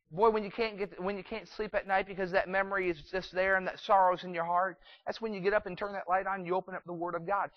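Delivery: loud, pressing pulpit delivery; forceful preaching. Acted. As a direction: preach it loud, driving each phrase.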